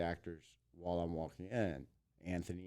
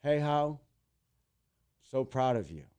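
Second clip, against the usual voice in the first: imitated star's message, pitched up; mock celebrity voice, higher and deliberate; Anthony Anderson; 5 semitones higher, 5 dB louder than usual. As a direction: hail him loudly, then praise him. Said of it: "He sends me a Facebook message".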